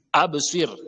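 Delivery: Absir as "abe-sir", B echoed; bouncing qalqala ba. Shown as a demonstration. Teacher drilling qalqala, ba released with a bounce. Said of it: "Le bas".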